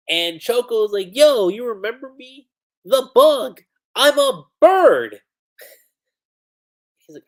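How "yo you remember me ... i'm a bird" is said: loud, high, boisterous character voice; excited shouting. Acted. Choco greets a friend who just woke up, excited shout.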